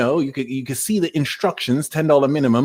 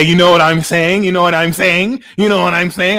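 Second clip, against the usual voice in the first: rapid-fire mock American catchphrase, louder; louder, repetitive American impression; mimicking Americans; 5 dB louder than usual. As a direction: rattle it off like an imitated American. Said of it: "You Americans always love to say".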